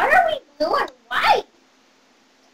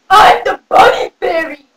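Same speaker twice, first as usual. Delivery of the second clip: lightly strained, odd fairy voice; bunny fairy voice; 3 semitones lower, 4 dB louder than usual. Acted. Bunny fairy introducing herself to a child, odd strained voice. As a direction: put on a slightly strained character voice. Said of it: "Why do you talk like that?".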